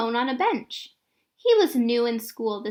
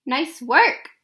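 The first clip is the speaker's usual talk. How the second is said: mocking yell; 5 dB louder than usual.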